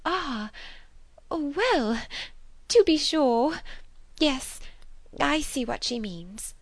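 high, halting, wounded voice; Miss Bates. A narrator's reading. Spinster realising she's been mocked, pained and high. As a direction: take in the slight in broken little phrases. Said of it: "that it could pain her".

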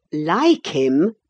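incredulous retort; indignant exclaim. A narrator's reading. Ellen scoffing at Catherine, indignant. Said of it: "I exclaimed".

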